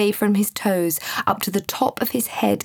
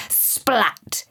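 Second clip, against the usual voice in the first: splat. A narrator's reading. Narrator voices a sudden impact.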